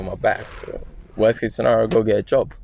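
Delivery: ordinary delivery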